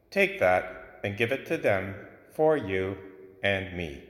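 solemn liturgical reading aloud; Gospel proclamation. Acted.

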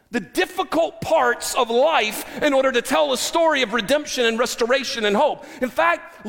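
high-pitched, driving sermon delivery; emphatic preaching. Acted. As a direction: preach it with urgent, punched emphasis. Preaches at full force.

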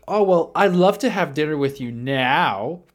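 mock eager gold digger. Gold digger accepting dinner after seeing the car, mock eager. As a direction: imitate a woman suddenly keen on a date. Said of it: "She goes".

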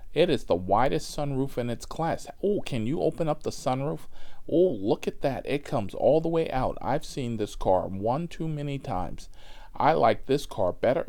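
mildly hyped car nerd, lifted pitch; imitated excited passenger. Passenger marvelling at the sunroof to the driver, imitated excitement. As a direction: gush over the car like a keen kid. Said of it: "He's normally not this excited".

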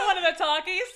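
put-on high, loud old-fashioned lilt; old-timey voice. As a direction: ham up a quaint old-timer. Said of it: "I was like".

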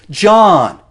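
John said firm and set apart, falling; stress on John. Shown as a demonstration. Preacher to congregation showing the Greek emphasis, stressed John. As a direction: lean on the word John alone.

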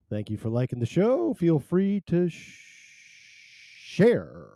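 a hint of a tipsy, obnoxious radio host. Real, not acted. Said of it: "talking like an obnoxious radio show".

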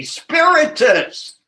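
spiritus drawn out slow and high, spi-ri-tus; Latin word. Shown as a demonstration. Speaker teaching the group a Latin word, slow. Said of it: "from the Latin word spirit".

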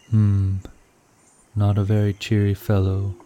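lightly amused, wry remark; a dry chuckle in the voice. A narrator's reading. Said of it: "in an amused tone".

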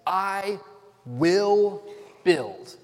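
"I", "will" and "build" each set apart by pauses; slow, measured quote; slow, deliberate. Shown as a demonstration. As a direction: space out "I will build" word by word. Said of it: "it gets translated into English as".

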